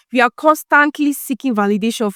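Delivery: firm weight on "constantly"; stress on CONSTANTLY. Real, not acted. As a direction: lean on the word "constantly". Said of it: "Please, emphasis on constantly".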